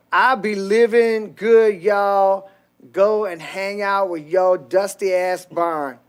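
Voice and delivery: loud, slow, exaggerated Ebonics accent; mock Ebonics. Reading a donor's message aloud on the show, mock Ebonics. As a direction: stretch the words in a put-on Ebonics caricature. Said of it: "I can't read your fucking Ebonics".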